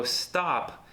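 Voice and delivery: a long, bouncy "stop" stretched out; drawn-out stop. Shown as a demonstration. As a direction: stretch "stop" so it lasts the move. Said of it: "this little bouncy effect where they go".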